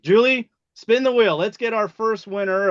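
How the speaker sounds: bright, loud call to spin; rally the room to spin; hyped giveaway announcement. Real, not acted.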